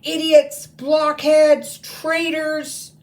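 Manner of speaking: high, loud screamed insults; furious scream. Acted. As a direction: scream each insult in rage. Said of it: "she screamed".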